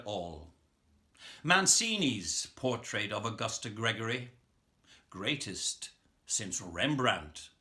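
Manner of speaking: measured, deliberate poem reading with long pauses; poetry recitation. Acted. Reading a favourite Yeats poem to an online audience, measured recitation.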